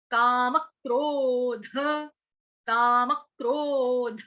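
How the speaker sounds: क्रोध slowly with ध released with a sharp jolt; jerked dh. Shown as a demonstration. Teacher showing the jerked ध in क्रोध. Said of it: "ध को हमने झटके से छोड़ना है".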